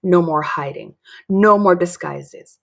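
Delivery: firm, rising to a loud, slow finish; building yell. Acted. Dory declares her resolve to Mary, building to a yell. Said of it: "I yell".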